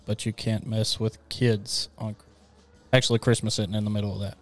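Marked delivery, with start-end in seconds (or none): 0.0-2.2 slow, flat, lifeless line; monotone voice. Shown as a demonstration. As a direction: read it dead flat and slow. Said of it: "the monotone Christmas line game".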